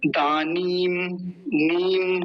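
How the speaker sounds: दानीम with a long, held ee in नीम. Shown as a demonstration. Teacher pointing out the long vowel sign, drawn-out pronunciation. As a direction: stretch the ee of दानीम. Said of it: "बड़ी की मात्रा".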